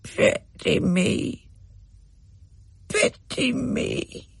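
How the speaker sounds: high, slow, hoarse breathy croak; a sorrowful little bird rasping its words; sad hoarse bird. A narrator's reading. The white bird speaks to Rachel, sad hoarse croak. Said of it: "in its sad, hoarse voice".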